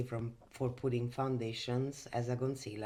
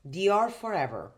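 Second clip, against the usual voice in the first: excited product reveal; 6 semitones higher, 8 dB louder than usual. Real, not acted. Announcing favourite foundation.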